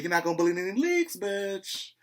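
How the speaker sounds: high, quick mock warning; high retold threat; defiant warning. Acted quarrel, repeating Nene's line.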